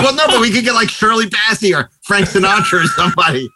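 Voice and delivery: high-pitched mock haggling; retold pleading objection. Producers haggling with George Martin over the singer, mock pleading. Acted bargaining in retold story.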